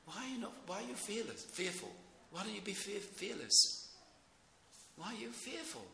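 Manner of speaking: mock questioning. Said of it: "what's he saying there".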